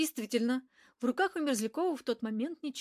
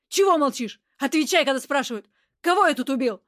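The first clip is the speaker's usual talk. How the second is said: louder, rising threat; threatening; 3 semitones higher, 8 dB louder than usual. A narrator's reading. Angry man demanding answers from the woman, threatening and louder. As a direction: bark the questions, getting more menacing. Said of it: "угрожающие нотки в голосе нарастали".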